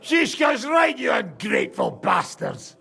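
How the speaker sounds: rowdy toast shout. Acted. Drunken toast, scolding the men.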